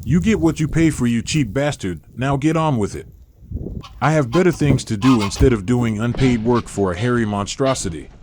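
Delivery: flat computer voice; robotic AI narrator. Real, not acted. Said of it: "how come you sound so robotic".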